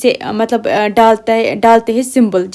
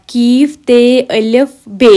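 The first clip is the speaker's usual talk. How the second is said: slow letter spelling; slower than usual. Shown as a demonstration. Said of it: "For example पहला है किताब".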